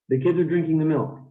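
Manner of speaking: put-on weak "are" tucked between "kids" and "drinking"; reduced function words. Shown as a demonstration. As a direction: stress "kids", "drinking", "milk", barely sound "the" and "are". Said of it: "we just reduce them so much".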